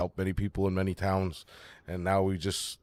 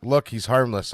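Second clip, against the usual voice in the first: raised, urgent plea; louder, begging them to back off; pleading louder; 3 semitones higher, 6 dB louder than usual. Acted. Gnome pleading with the guards, raised voice. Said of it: "I'll be like".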